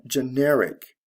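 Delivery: "generic" stressed on NER; teacher's model of "generic", beat on NER; stress on second syllable. Shown as a demonstration. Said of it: "to the second syllable".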